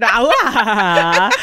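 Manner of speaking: drawn-out mangled "ah"; fail loudly at forming words; garbled repeat attempt. Storyteller retrying the failed greeting, garbled wordless noise. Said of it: "I tried to say it again".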